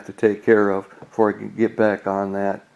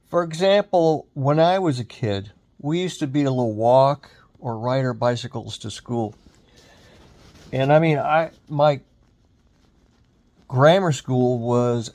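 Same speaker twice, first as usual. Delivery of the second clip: back in my day rant; 2 semitones higher than usual. Real, not acted. Recalls walking to school as kid.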